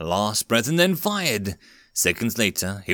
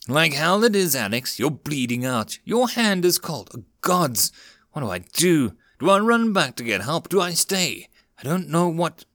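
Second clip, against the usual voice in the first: spiral into panic; frantic; 6 semitones higher than usual. Acted. Ricky at Alex's side, frantic pleading questions.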